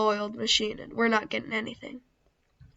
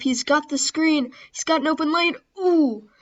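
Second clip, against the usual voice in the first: higher-pitched excited play call; rising excitement; 4 semitones higher, 4 dB louder than usual. Real, not acted. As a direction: build up to an excited "ooh". Rising excitement at open lane.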